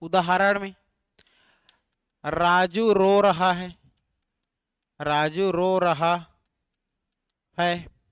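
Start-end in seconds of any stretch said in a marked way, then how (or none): 2.2-3.8 each word spaced out for writing; slow dictation. Shown as a demonstration. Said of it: "teacher dictating example slowly". 5.0-8.0 slow dictation. Shown as a demonstration. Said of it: "teacher dictating example slowly".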